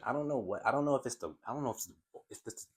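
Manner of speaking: real stutter, words catching. Real, not acted. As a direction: stumble and repeat the start. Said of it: "stuttering like crazy".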